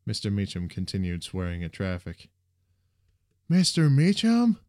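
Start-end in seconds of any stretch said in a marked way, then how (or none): 3.5-4.6 loud, high, drawn-out call. A narrator's reading. Jack tries to get the bus driver's attention, calling out. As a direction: call the name to get through the din.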